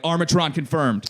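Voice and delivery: slow, clipped military confirmation, lightly done; mock radio confirmation. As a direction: report it to your commander, deadpan. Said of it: "confirm it to your higher up, like".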